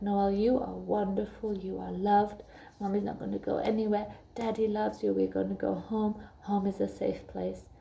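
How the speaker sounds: put-on gentle, reassuring affirmations to a child; mother soothing her daughter, gently and softly. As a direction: softly assure the little girl she is loved. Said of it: "I just affirmed her".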